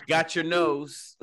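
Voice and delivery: slow, grand magician voice; drawn-out pompous showman. Pretend. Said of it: "Why you sound so pompous".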